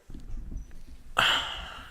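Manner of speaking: long, soft exhale; heavy breath of disappointment; disappointed sigh. Real, not acted. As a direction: sigh out the letdown. Disappointed about the game.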